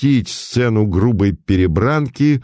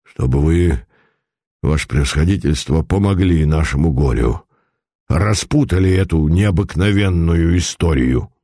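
a lightly voiced old merchant, a touch lower; 4 semitones lower than usual. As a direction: tell it like a worried old moneybags. Старик просит Путилина о помощи. (слегка озвученный старый купец)

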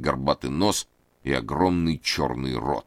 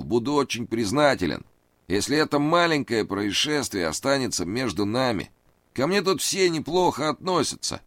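high, anxious pleading man; nervous high voice; 9 semitones higher than usual. A narrator's reading. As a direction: raise the pitch, plead nervously. Reid voiced.

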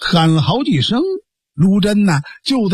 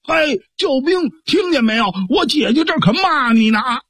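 calling out; 6 semitones higher than usual. Acted. Guodong calls to hiding helper.

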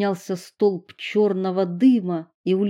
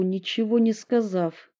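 usual speaking voice

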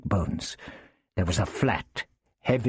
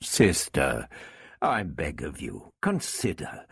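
placating; 7 semitones lower than usual. A narrator's reading. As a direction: gently beg her to reconsider. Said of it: "He held up his hands placatingly".

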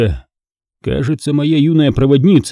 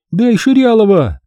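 angry demand; 9 semitones higher than usual. A narrator's reading. Girl demanding drug.

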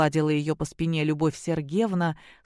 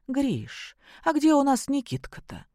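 higher, sudden worried question; sudden alarm; 8 semitones higher than usual. A narrator's reading. Wife suddenly remembering the grandson, alarmed. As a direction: catch yourself and ask in sudden alarm. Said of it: "спохватилась".

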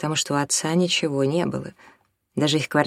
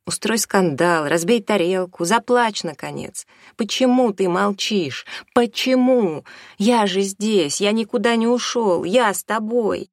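higher, louder, climbing pleas; frantic yelling; 5 semitones higher, 3 dB louder than usual. A narrator's reading. Son yelling at his silent mother to react. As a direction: break through her silence.

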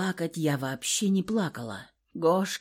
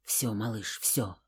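very low, soft and calming; soothing murmur; 9 semitones lower, 9 dB quieter than usual. A narrator's reading. Kolya quietly calming the woman he holds. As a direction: hush her gently.

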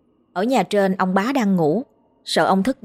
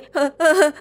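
panicked whimpering; 8 semitones higher than usual. Acted. Man panicking after seeing a ghost.

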